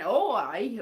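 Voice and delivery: imitated West Country exclamation; West Country accent. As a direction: put on a brief West Country twang. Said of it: "something that was really West Country".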